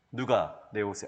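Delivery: low, soft voice as Jesus asking; a low, slightly hushed Jesus asking. Retold or imitated. Preacher voicing Jesus asking who touched him, low and soft. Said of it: "딱 이렇게 하셨어요".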